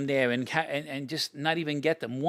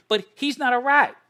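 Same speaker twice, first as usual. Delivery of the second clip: louder and higher, hammering the word rat; exasperated retold shout; 9 semitones higher, 9 dB louder than usual. To Pete at his house, a retold exasperated shout. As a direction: scold him hard, he is no rat.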